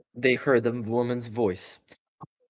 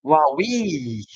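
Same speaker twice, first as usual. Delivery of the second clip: excited; 3 semitones higher, 4 dB louder than usual. Acted. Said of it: "he gasped".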